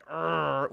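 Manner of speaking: drawn-out "urgh" of regret; mock-pained growly groan; cringing groan. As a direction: groan at your own blunder. Imitates own cringe on Twitter.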